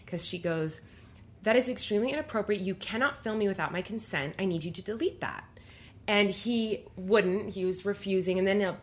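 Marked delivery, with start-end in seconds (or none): 1.4-5.5 retold firm reprimand; brisk, no-nonsense telling-off, lightly acted. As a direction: quote a crew member standing her ground. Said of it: "she just stood her ground so firmly".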